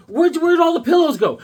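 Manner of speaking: high, loud mock wife; playing the wife missing her pillows. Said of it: "She's like".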